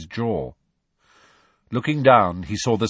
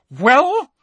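high loud seething start; angry; 8 dB louder than usual. A narrator's reading. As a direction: bite the word off in rage. McGonagall quivering with rage.

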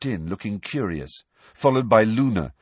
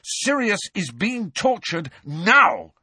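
shouted; 11 semitones higher, slower than usual. A narrator's reading. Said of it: "shouted Harry".

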